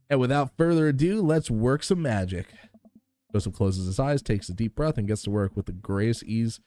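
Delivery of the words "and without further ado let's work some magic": grandly drawn-out showman's intro; showman's flourish. Acted. Grill dad announcing his act, showman's flourish. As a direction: build up to a magic act, ending slow.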